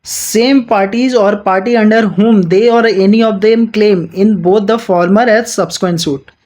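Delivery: slow, deliberate reading of the statute; measured textbook read-aloud; slow legal reading. Acted. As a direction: dictate each clause slowly to students. Reads the legal text aloud.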